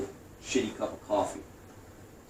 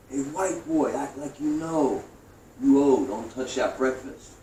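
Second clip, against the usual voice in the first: repeated holler; 5 semitones higher, slower than usual. Retold or imitated. Same holler on day two.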